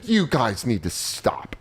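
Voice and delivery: slow, measured telling-off; imitated mom's scolding. Mom telling the teasing couple off, slow imitated scolding. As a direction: draw it out as a mother's warning. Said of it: "that's the exact energy she hits it with".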